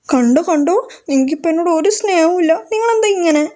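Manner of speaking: sulky complaint. Acted. Wife sulking, complaining no love.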